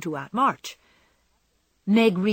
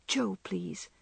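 whispered plea; sick girl whispers her choice; soft whisper; 6 dB quieter than usual. A narrator's reading. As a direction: ask weakly and gently. Sick Beth asks softly.

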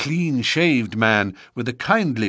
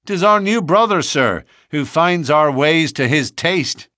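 hearty announcer voice; 7 semitones higher, 5 dB louder than usual. A narrator's reading. Baldwin announcing.

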